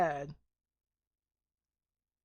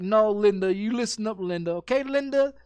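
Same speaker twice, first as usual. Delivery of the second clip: put-on loud bossy little kid; a kid scolding his mom, hammed up; child telling off his mother, mock loud; defiant kid yelling; 6 dB louder than usual. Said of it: "and he's like".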